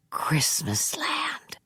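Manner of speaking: slow awed whisper. Acted. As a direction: breathe the name in awe. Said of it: "Bing whispered".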